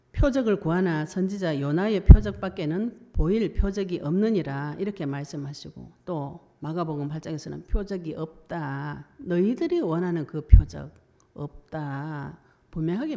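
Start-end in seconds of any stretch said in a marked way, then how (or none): 0.1-4.8 louder, weighty pronouncement; preacher quoting Jesus with force; solemn scripture voice. Retold or imitated. 7.6-12.4 slow, with a loud middle and heavy pauses; Jesus refusing a sign, emphatic; firm emphatic statement. Retold or imitated.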